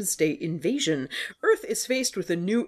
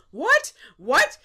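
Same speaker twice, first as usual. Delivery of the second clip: surprised; 9 semitones higher, 6 dB louder than usual. Real, not acted. Shocked at sequel news.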